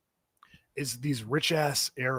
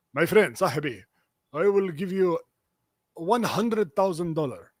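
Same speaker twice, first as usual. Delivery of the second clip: put-on Arab accent; 4 semitones higher, 4 dB louder than usual. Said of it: "rich man's offer voiced".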